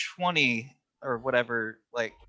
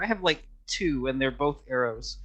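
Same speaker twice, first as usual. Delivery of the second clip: normal talking voice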